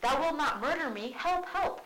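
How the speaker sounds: high shrill mock cry for help; hammed-up frightened queen calling help; panicked queen. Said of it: "the queen says".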